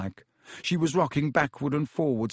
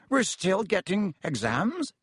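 howling; 7 semitones higher, slower than usual. A narrator's reading. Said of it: "howled Seamus Finnegan".

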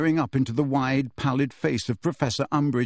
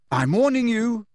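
higher, threatening warning; 9 semitones higher, 3 dB louder than usual. Acted. Harry threatening Kreacher, sharp warning. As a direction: warn him hard. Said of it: "said Harry".

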